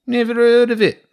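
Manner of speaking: very high, loud rat squawk; rat soldier. A narrator's reading. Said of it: "said another".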